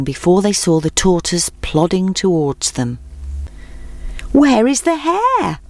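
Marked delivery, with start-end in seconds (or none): 4.3-5.6 high, slow call. A narrator's reading. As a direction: call out across the clearing. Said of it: "they called out".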